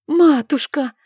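put-on high, bright child's call of mother; a boy perking up at once; eager cry. A narrator's reading. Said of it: "тут же встрепенулся он".

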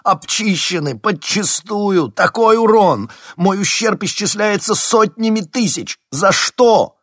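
shrill, very loud, high wail; despairing high loud lament. A narrator's reading. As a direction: howl over the lost fortune. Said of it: "запричитал он".

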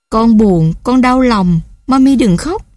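put-on a little boy sobbing out his sorry to mum; mild crying child. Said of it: "gấu lại khóc nữa". (giọng bé hơi mếu, cao hơn)

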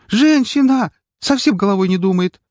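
high, loud exasperated shout; angry yell. Acted. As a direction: yell at her in irritation. Hero yells at nurse. (раздражённый крик)

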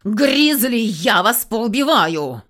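loud, slow, snarled threat; furious woman snarls at the bear; growling threat. Acted. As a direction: growl it out, meaning every word. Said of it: "Зарычала Камнева".

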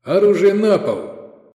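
high, loud command; slow commanding yell; shouted order. A narrator's reading. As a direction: order them to drop it, drawing it out. Attackers shout orders at gunmen.

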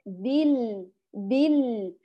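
بال with a brief ringing l; slightly flowing lam. Shown as a demonstration. Teacher models the right lam, a slight flow of sound. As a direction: let the l of بال run just a little. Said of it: "أعطيه فقط جريان شوي".

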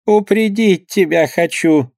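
a hint of a fretful old mother warning her son; mother's plea. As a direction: plead with your son slowly, worried. Fearful mother warns son.

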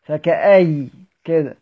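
فكأي drawn out, ending on the ya; فكأي stopped on ya; stopping on ya. Shown as a demonstration. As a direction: model the stop فكأي slowly. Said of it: "بيقف على الأصل بتاعها كأي".

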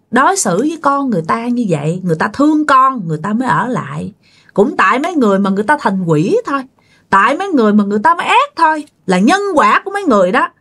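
retold quick-paced blame; scolding. Master blames the family for the ghost's cruelty, scolding. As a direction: hurry through the accusations reprovingly. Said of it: "Thì ông thầy ông chửi xong".

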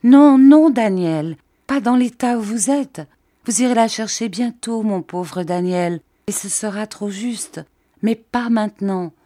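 high, pleading, grief-stricken; in a fit of grief. A narrator's reading. Mrs Gummidge holding Daniel back, grieving plea. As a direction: beg him to stay through distress. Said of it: "dans un accès de douleur".

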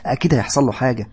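tearful regret. Acted. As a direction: grieve for her father through tears. Sara crying about her father.

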